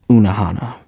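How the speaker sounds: fully whispered name reveal; dramatic whisper. Shown as a demonstration. YouTuber reveals a spoiler name to viewers, dramatic whisper. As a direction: whisper it like a big secret.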